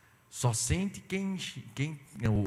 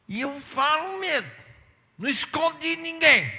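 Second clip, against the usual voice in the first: mock sister; 12 semitones higher, 7 dB louder than usual. The blunt church sister shouts her sincerity. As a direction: boast bluntness at full blast. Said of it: "Quando ela fala".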